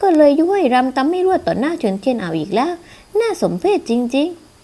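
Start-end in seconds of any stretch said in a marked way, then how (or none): 3.2-4.5 slow, scornful sneer; contemptuous. Acted. Stepsister scorning the mistress, slow and scornful. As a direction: drag it out with contempt.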